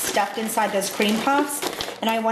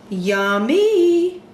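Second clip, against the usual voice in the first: excited; 7 semitones higher, 5 dB louder than usual. Real, not acted. Tasting the filling.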